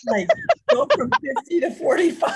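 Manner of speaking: high, loud laughing joke; cracking up mid-sentence. Real, not acted. Joking, laughing.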